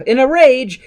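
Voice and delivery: loud, high burst of narrated fury; mock rage. A narrator's reading. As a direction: punch out the rage.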